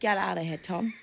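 put-on firm, tough voice. Role-playing a bouncer turning away a wedding guest: role-playing a firm bouncer. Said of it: "You're the bouncer".

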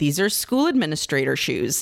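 ordinary talk

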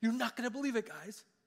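eager, excited, bursting rush of words. Retelling Peter knocking on the door with news: acting excited as Peter. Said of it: "He's all excited to tell them".

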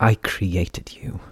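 words forced out in a hiss. A narrator reads a being addressing what it created, hissing. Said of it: "the Diane hissed".

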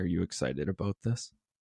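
mock whispering. Retelling a commercial where he whispers in kids' ears: imitating someone whispering. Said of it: "whispering in kids' ears".

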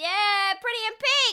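shrill, stretched-out shout, very high and drawn-out. Retelling how Brittany reacted when Mary arrived, imitating Brittany yelling. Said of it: "Brittany yells".

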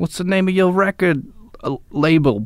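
put-on Boston accent. Retelling what a man asked him, imitating that man's accent. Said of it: "you know that accent".

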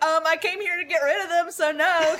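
put-on confused, dazed tone. Retelling an answer given after wisdom teeth surgery: imitating own confused drugged self. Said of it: "in my confused brain state".

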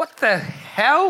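loud high yell. A character stands up at a sound and turns around, yelling out. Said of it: "turns around and yells out".

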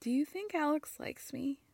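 hushed secretive whisper. Retelling a question one person whispered to another: imitating a whisper. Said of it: "And then she whispers".

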